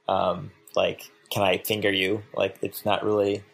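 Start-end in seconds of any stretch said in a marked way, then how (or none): 1.3-2.2 flat, bored monotone ask. Shown as a demonstration. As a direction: say it deadpan with no feeling. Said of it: "that kind of monotone that I just did".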